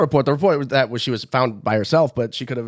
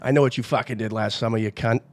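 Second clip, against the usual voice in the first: thick Boston accent, gruff. Shown as a demonstration. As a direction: say it like a tough Boston local. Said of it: "How would you say that in a Boston accent?".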